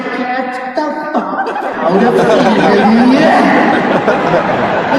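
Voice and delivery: mock doctor. Mock doctor, slow laughing.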